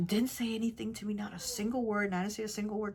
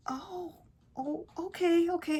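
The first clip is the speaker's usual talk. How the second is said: high, taken-aback little okays; startled okay; 10 semitones higher than usual. Retold or imitated. Child answering the angry grandmother, high and startled. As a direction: back off quickly, startled.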